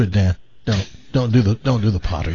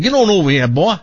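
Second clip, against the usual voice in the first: Southern accent; 4 semitones higher, 3 dB louder than usual. Shown as a demonstration. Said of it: "speak a language that that dog".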